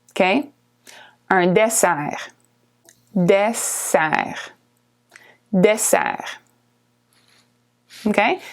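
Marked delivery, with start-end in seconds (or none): 1.3-6.4 dessert without the T; silent final T. Shown as a demonstration. Teacher modelling dessert, French pronunciation. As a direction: end dessert open, no T. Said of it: "The T at the end is silent".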